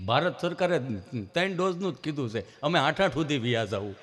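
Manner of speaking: lightly voiced halting stammerer; imitated tongue-tied friend; stammering friend. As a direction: break it up, catching before each phrase. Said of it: "જીભ જલાઈ સોટે અટકે".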